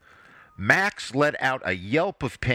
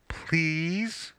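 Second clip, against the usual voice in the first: pleading wife; 7 semitones higher than usual. A narrator's reading.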